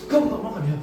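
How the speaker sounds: high, loud nagging parent; imitated harsh scolding. Parent yelling at a child for not eating, mock angry. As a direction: snap it at the kid like an angry parent.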